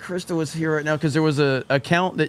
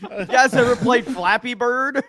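laughing mock; 6 semitones higher than usual. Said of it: "mocking gamer, laughing".

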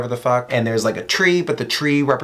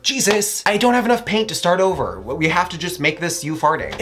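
high, exasperated painter; lightly voiced Leonardo, fed up; mock panicked painter, pitched up; 4 semitones higher than usual. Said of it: "and he was like".

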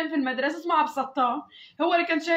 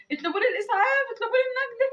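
retold cry for help; 6 semitones higher than usual. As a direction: pitch rising on the repeated appeal. تستغيث بالناس بعد ضربها. (استغاثة محكية بطبقة ترتفع)

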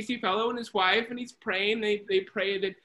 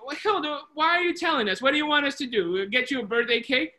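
higher, scornful retelling of a friend's retort; mocking retort; 5 semitones higher, 3 dB louder than usual. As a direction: tease her with rising, incredulous questions. Other two jeer at Hilda's birthday.

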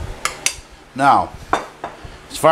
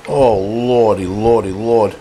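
hammed-up rapture over the food, in a put-on voice; playful put-on awe, a change of voice; mock swoon; 2 semitones lower, slower than usual. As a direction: swoon over the plate like a church lady.

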